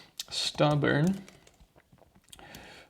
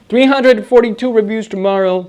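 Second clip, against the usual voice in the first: incredulous outburst; 7 semitones higher, 14 dB louder, much faster than usual. Real, not acted. Dismayed at the review count.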